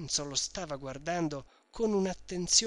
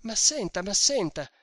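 higher, louder urgent pleas; pleading in vain; 6 semitones higher, 6 dB louder than usual. A narrator's reading. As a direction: try to get a word in. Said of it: "ripeteva indarno Renzo".

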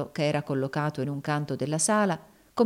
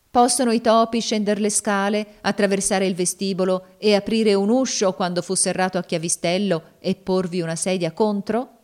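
lightly voiced insistent woman, slightly raised; taunting slave woman, insistent; 3 semitones higher, 4 dB louder than usual. Slave woman challenging her master about the attic, insistent. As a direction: press the question, lightly in character. Cassie challenges Legree in dialogue.

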